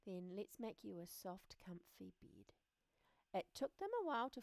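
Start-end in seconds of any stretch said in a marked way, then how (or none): 0.1-2.5 soft whisper. Acted. Friend offers soft bed.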